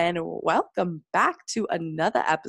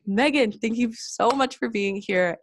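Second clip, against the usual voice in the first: giddy; 5 semitones higher than usual. Real, not acted. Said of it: "'cause clearly I'm giddy".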